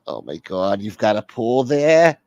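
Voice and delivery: drawn-out whine climbing into a question; whiny caller, amazed. Acted. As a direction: gush with a rising mock whine. Whiny caller reacts to pool.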